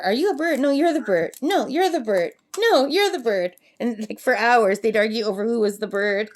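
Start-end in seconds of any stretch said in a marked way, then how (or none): 0.0-2.3 mock bird argument. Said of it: "all you'd hear". 2.6-3.6 mock bird argument. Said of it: "all you'd hear".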